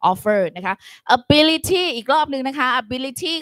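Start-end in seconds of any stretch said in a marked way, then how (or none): 1.2-3.3 slow teacher drill. Shown as a demonstration.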